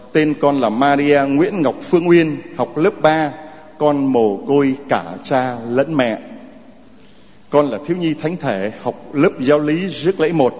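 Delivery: put-on gentle read-aloud of a child's letter. Priest reads child's letter aloud.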